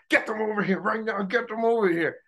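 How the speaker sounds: imitating the groom. Groom demanding friends come now, in a high imitating voice. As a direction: squeal the order like a stressed groom. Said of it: "So Sherwin is just like".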